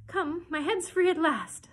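high, loud and slow cry of relief; delighted. A narrator's reading. Alice finds her head free at last, delighted. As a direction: stretch it out with loud, rising delight. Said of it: "said Alice in a tone of delight".

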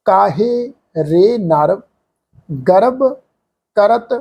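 drawn out, each word of the holy line set apart; slow scripture recitation. Shown as a demonstration. Teacher reciting Gurbani slowly to the sangat. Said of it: "ਮਹਾਰਾਜ ਦੀ ਬਾਣੀ ਦੀ ਪੰਕਤੀ ਹੈ".

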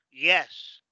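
YES with a gliding Y, like Spanish "ie"; teacher's model YES with a vowel-like Y; initial Y sound. Shown as a demonstration. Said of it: "Que empieza con Y".

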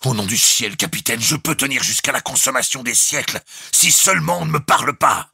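high, loud exclamation building in pitch; exasperated outburst. A narrator's reading. (exclamation exaspérée)

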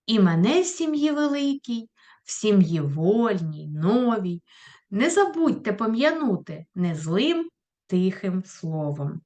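teacher recites Shevchenko for the class, solemnly; poem recitation. Shown as a demonstration. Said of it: "послухайте уривок з вірша".

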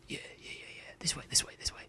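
tense whisper; being chased. Real, not acted. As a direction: hush it, someone is right behind you. Tense moment while being chased.

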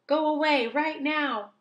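loud, high order to leave; shouting. Acted. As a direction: drive him out with a shout. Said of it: "shouted Owl".

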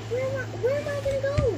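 panicked high voice. Real, not acted. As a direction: scramble for somewhere to go. Panicked while hiding.

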